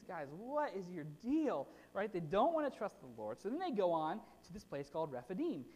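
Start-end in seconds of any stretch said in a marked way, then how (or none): 0.0-1.7 slow, drawn-out exasperation; exasperated. Retold or imitated. Preacher scolding the people, slow and exasperated. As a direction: plead in disbelief, slowly. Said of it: "So you're just like".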